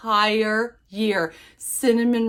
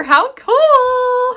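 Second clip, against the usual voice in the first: excited, louder and higher; 9 dB louder than usual. Real, not acted. Admiring the gift.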